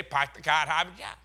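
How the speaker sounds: put-on Boston accent. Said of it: "everybody wants to hear us say".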